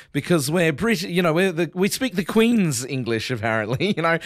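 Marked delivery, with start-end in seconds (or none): 1.7-3.3 mock posh. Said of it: "it's posher".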